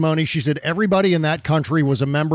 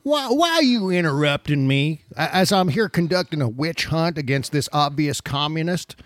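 impersonating the senator, higher and whiny; a hammed-up Southern senator complaining; mock Kennedy voice; 4 semitones higher than usual. Host mocking Senator Kennedy, mock Southern whine.

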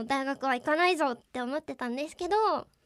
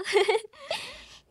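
high laugh; 11 semitones higher, 3 dB louder than usual. Real, not acted. Laughs after boasting.

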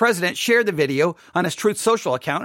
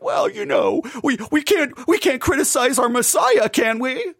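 mocking church voice; 4 semitones higher than usual. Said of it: "a church will be like".

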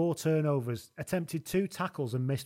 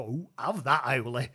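put-on Wigan accent; 2 semitones lower, slower than usual. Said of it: "in his brilliant Wigan accent".

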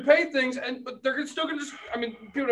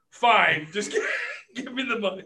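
laughing through a reluctant fine; laughing give-in; 4 dB louder than usual. Retold or imitated. Retold clerk giving in, laughing.

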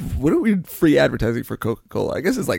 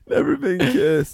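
laughing squeal; 12 semitones higher than usual. Real, not acted. Laughing exclaim title.

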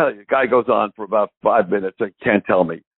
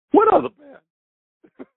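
much higher, slow, playful English voice; mock a famous singer; much slower than usual. The singer joking about the other band, high and slow. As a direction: tease like the singer dodging the name. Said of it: "When I was with the other band".

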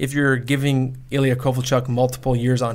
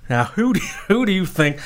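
put-on southern accent. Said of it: "I read the question in a southern accent".

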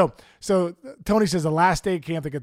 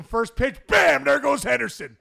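excited call; 8 semitones higher than usual. Retold or imitated. Calling the stolen base.

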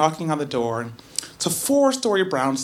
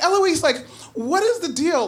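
exasperated; 10 semitones higher than usual. Retold or imitated. Exasperated question.

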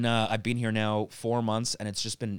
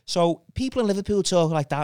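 higher-pitched, put-on Scouse; Scouse accent; 8 semitones higher, 4 dB louder than usual. Shown as a demonstration. Comic showing a Canadian crowd Liverpool speech, Scouse accent. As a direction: demonstrate a broad Scouse accent. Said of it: "I'd be doing different Scouse things".

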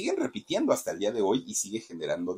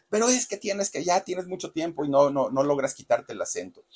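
higher, exasperated scolding; imitated scolding; 6 semitones higher than usual. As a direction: nag her like an impatient director. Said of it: "le ponía unas gritonizas".

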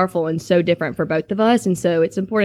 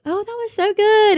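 much higher, gushing praise; gushing mom; 13 semitones higher than usual. Retold or imitated. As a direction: imitate other moms raving after the show. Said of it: "some moms are like".

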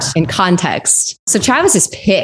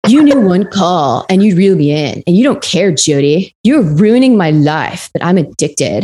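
lightly put-on voice of a pleading ex-boyfriend; T-Dog voice. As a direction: read the chat as him, a slight mock voice. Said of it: "like, my T-Dog voice".

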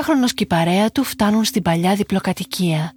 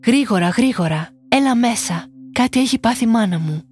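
urgent call; 3 semitones higher than usual. Acted. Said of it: "φωνάζει έναν από τους φίλους του".

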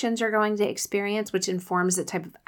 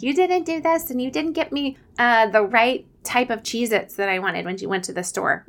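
put-on whiny kid; 4 semitones higher than usual. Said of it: "the complainers and the whiners being like".

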